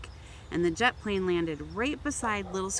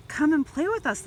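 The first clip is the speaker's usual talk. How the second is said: calling out; 8 semitones higher, 6 dB louder than usual. A narrator's reading. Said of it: "called the toys".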